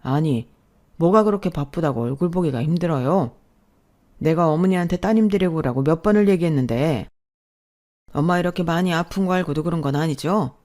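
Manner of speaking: mock-scold her for neglecting her mother; doctor snapping angrily. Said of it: "버럭 화부터 내시더군요".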